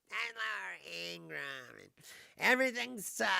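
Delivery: lightly mock a gloomy TV host; Laura Ingraham impression. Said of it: "I can't even listen to her talk".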